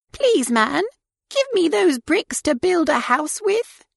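high pleading piglet; little pig voice. A narrator's reading. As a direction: ask sweetly in a high voice. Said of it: "and said".

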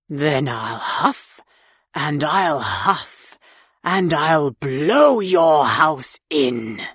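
low, slow threatening wolf; big bad wolf voice. A narrator's reading. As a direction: growl the threat slowly and low. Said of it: "said the wolf".

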